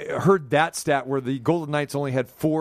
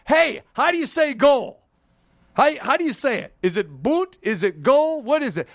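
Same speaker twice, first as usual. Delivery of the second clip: higher, louder, pretend asking the French announcer; mock eager question to announcer; 9 semitones higher, 3 dB louder than usual. A host acting out how he'll quiz the French announcer, higher and louder. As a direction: play it out as if already turned to the guy in the booth. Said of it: "looking at the guy and go".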